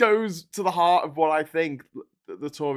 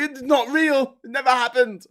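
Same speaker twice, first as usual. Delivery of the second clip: higher, louder mock denier; mocking covid denier; 8 semitones higher, 7 dB louder than usual. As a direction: parody a covid denier, raised. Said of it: "they go".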